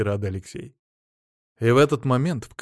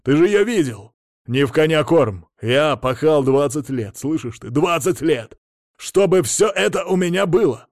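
high, loud furious tirade; flaring up; 5 semitones higher, 5 dB louder than usual. Acted. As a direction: explode at him, higher and higher. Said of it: "взвился Мамонов".

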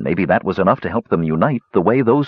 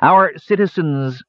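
slow, high scornful sneer; 8 semitones higher, slower than usual. A narrator's reading. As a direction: sneer it out slowly. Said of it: "she sneered".

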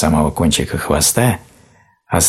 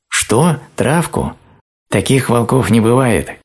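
the cub yells in disbelief, pitch up; shout; 8 semitones higher, slower than usual. A narrator's reading. Медвежонок кричит на волка, не веря ему, громко и высоко. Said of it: "кричал медвежонок".

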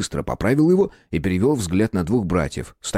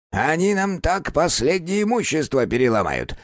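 angry; 8 semitones higher than usual. A narrator's reading. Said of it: "разозлился лохматый домовой".

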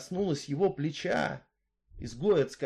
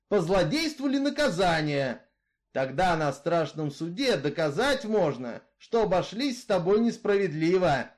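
louder, steady outlaw's voice, arguing his case; Misfit, brooding killer; 2 semitones higher, 4 dB louder than usual. Acted. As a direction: tell her your grievance, hard and level. Misfit's speech continues. (голос Изгоя, громче и жёстче)

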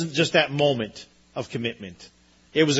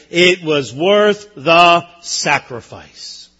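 slow, sincere testimony; 6 dB louder, much slower than usual. Pretend. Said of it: "she would say".

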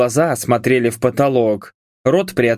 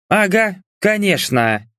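smirking; 7 semitones higher than usual. A narrator's reading. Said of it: "усмехнулась Энджи".

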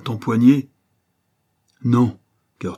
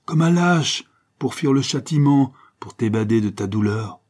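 louder, higher bitter outburst; bitter retort; 4 semitones higher, 5 dB louder than usual. Acted. Banker Favreau to his jailer Kerjean, bitter loud retort. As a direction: fling it back at him. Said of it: "ripostait Favreau".

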